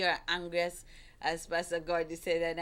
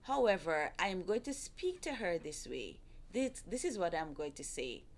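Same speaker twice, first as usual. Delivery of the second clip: calm respectful tone; 3 dB quieter than usual. Shown as a demonstration. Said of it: "you are now deciding".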